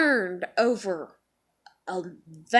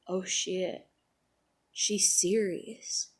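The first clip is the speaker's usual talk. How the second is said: soft, lowered, slowing mimicry of onlookers; hushed realization; 3 semitones lower, 6 dB quieter, slower than usual. Onlookers realizing she is really mad, imitated in a hush. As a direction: drop to a hushed, sobered imitation. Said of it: "everybody gets quiet".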